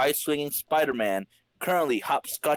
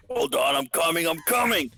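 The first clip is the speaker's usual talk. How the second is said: raised call to the door; 5 semitones higher than usual. Acted. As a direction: call from the back room. Aunt calls to the door.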